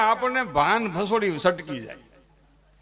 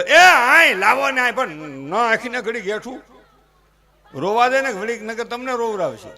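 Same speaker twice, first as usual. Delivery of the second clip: doting grandmother; 6 dB louder than usual. Retold or imitated. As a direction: call loudly for the baby like a fussing grandmother. Grandmother wants baby.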